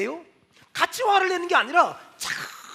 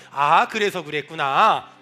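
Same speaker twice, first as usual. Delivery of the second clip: slow model line; 12 semitones lower, 4 dB louder, slower than usual. Shown as a demonstration. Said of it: "따라합시다".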